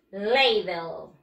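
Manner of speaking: "Ladle" said "LAY-dl", low and falling; model pronunciation. Shown as a demonstration. Teacher has pupils say it again, model pronunciation. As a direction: give "Ladle" as a careful low-pitched model.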